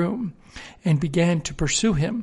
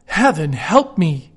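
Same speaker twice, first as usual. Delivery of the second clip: slow, louder alarmed exclamation; startled cry; 4 dB louder, slower than usual. Acted. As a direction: cry out in dismay. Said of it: "he cried".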